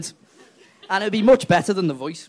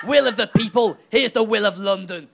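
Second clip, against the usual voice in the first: louder, smug put-down; smug retort; 2 semitones higher, 3 dB louder than usual. Retold or imitated. London sneering back at Stoke, louder and smug. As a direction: slap back triumphantly. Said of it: "they're just gonna go".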